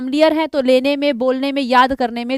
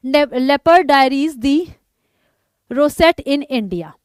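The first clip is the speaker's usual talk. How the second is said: slow read-out; much slower than usual. Shown as a demonstration. Teacher reads title slowly.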